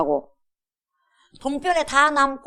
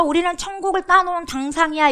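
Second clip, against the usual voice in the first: smug boast; 8 semitones higher than usual. Retold or imitated. Mocking smug chosen people.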